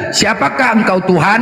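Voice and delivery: slow, reverent question to the Lord; mock-pious slow rising question; pious formal question. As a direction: ask it humbly and formally, slowly. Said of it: "Kau kalau menjumpa orang lain".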